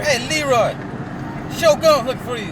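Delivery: put-on old movie jive voice. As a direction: ham it up like a street tough from an old film. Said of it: "That's how they all talked in those movies".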